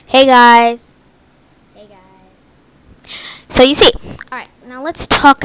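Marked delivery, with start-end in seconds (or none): 0.1-0.9 loud, right into the mic; close to the mic. Shown as a demonstration. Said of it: "in the mic". 1.8-3.1 distant and faint; far from the mic. Shown as a demonstration. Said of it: "far from the mic".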